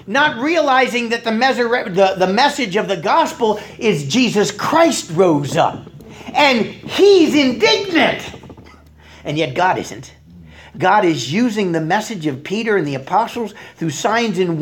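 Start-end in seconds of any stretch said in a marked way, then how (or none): 6.3-8.3 slow, high, forceful hit on "he's indignant"; emphatic. Real, not acted. Preacher driving home the priest's reaction, emphatic "he's indignant". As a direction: stretch "he's" high and loud, then punch "indignant".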